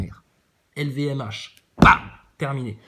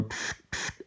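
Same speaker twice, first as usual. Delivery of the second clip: mouthed crackling static sound; radio static noise; 12 dB quieter than usual. Retold or imitated. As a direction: imitate a bad space radio crackle. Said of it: "avec un son un peu pourri".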